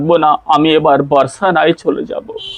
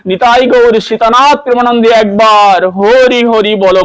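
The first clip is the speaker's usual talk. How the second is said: raised, ringing call to chant Hari Hari; 3 semitones higher than usual. Acted.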